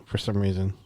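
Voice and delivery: hushed whisper. Real, not acted. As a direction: whisper it low. Whispered aside.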